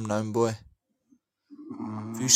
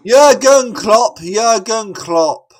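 loud, slow chant of the name; drawn-out shout; 8 semitones higher, 9 dB louder, much slower than usual. Real, not acted. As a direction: bellow the name out slowly, like a football chant. Yelling a name across room.

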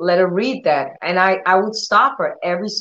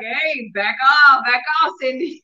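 startled warding off; 5 semitones higher than usual. Retold or imitated. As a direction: retell backing away from an outburst. Acting out her startled reaction.

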